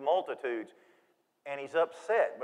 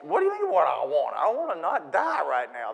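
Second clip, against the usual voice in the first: scared woman; 5 dB louder than usual. Acted. Adulterous woman answering Jesus.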